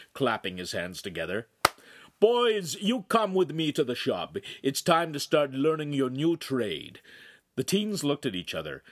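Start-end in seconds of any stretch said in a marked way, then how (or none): 2.2-7.0 put-on loud, raised call to the boys; big man's brisk authority; commanding master. A narrator's reading. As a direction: order them to the workshop like the boss.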